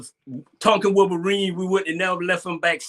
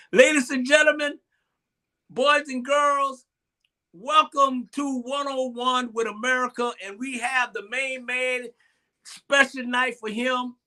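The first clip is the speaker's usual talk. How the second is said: show announcer; 5 semitones higher than usual. Acted. Host welcomes viewers to One on One, announcer style. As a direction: present the guest phrase by phrase, with pauses.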